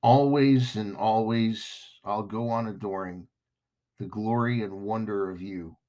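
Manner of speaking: measured, low-key recitation of romantic verse; understated spoken-word romance; spoken love lyrics. Acted. Recites romantic lyrics before chatting.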